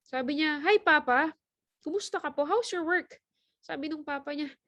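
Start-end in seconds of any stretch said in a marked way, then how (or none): 0.6-3.2 put-on excited child. Child greets tired father excitedly.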